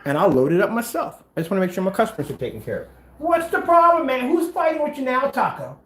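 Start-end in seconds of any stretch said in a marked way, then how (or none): 3.2-5.8 pet talk. Real, not acted. Talking to his pet Taco.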